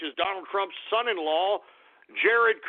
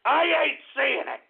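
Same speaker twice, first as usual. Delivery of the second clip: slow sarcastic repeat; 10 semitones higher than usual. Real, not acted. Second take, slower.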